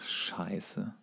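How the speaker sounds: normal talking voice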